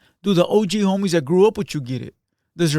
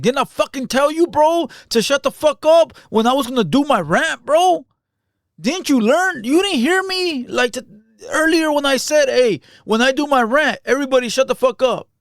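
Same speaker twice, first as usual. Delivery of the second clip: higher, louder, hammed-up frustrated yelling; mock frustrated rant; 7 semitones higher, 5 dB louder than usual. Imitating the host yelling at Munchie for interrupting his rant, mock frustrated. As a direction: rant it like you're fed up with being interrupted. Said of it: "That's what that sounds like. It sounds like frustration".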